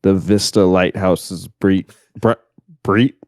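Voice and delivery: low, slow ASMR narration voice; failed ASMR voice. Shown as a demonstration. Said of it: "that was an absolute disaster".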